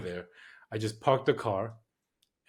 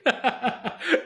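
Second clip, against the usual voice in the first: a sudden, high real laugh; high burst of laughter; 14 semitones higher, 5 dB louder than usual. Real, not acted. Laughing at Willie's paranoia jab, real laugh. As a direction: break into laughter at the joke.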